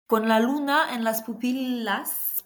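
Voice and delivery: slow Spanish delivery with a laugh behind it; slow, amused Spanish accent. Pretend. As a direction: lilt the lyric in a put-on Spanish accent. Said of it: "j'aime bien prendre mon accent espagnol".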